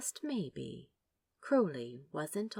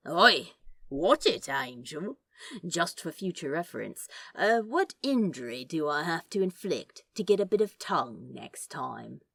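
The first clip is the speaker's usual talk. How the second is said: cheeky demon; 3 dB louder than usual. Acted. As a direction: push his luck, grinning. Crowley cheeky.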